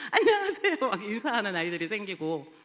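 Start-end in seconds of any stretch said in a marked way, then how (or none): 0.1-0.8 much higher, loud, sing-song hello; child greeting the teacher, high and bright; cheery kid greeting. Retold or imitated. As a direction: chirp it like a happy child. Kids now greeting them.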